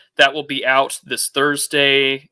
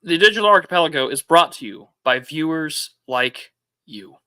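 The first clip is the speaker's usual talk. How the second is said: scripted show sign-off. Real, not acted. Reads the show's sponsor-style sign-off.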